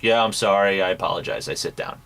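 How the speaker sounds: mumbled, throwaway mock apology; mock indifferent apology; unsympathetic apology. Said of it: "has no goddamn sympathy".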